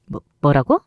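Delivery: stuttered, caught-off-guard reply; stammering shock. Acted. Rival stammering after the mother exposes her husband, shocked. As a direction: stumble on the first word in shock. Rival shaken by counter-threat.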